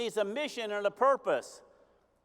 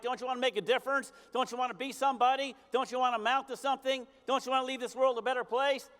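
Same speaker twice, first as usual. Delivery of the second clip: rapid-fire urging; faster than usual. Retold or imitated. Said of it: "Art Williams built this whole company on terms like".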